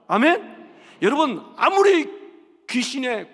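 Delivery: loud, urgent pulpit voice; full-force preaching. Acted. Pastor assures the congregation of God's protection, loud and urgent. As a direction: hammer each line at the congregation.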